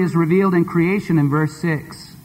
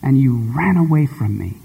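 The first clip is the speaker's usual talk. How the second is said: put-on gentle heartbroken girl; tender reproach; 3 semitones lower than usual. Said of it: "She goes".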